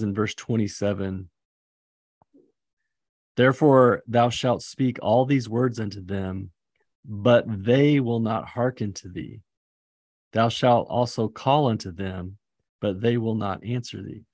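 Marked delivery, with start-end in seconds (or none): 3.4-14.2 scripture reading. Acted. Reading scripture aloud solemnly.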